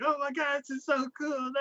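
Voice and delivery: very high, gushing excitement; guy trying VR for the first time, gushing high; mock excited. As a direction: gush over the VR like a kid. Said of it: "he's like".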